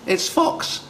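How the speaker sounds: very high little mouse voice; squeaky storybook mouse. Acted. Mouse announces fox.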